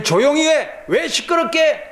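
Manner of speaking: crowd hushing. Acted.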